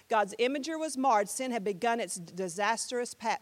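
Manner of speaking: rhythmic poem reading; poem with a steady beat; spoken-word recital. Shown as a demonstration. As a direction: recite it in measured phrases. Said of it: "this is a spoken word here".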